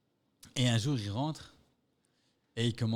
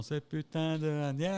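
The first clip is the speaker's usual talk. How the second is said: drawn-out, higher mock grumble; imagined angry griping; 6 semitones higher, slower than usual. Convinced victim griping after leaving, mock angry. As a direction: imitate a man griping as he leaves, slowly. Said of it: "il a dû aller gueuler".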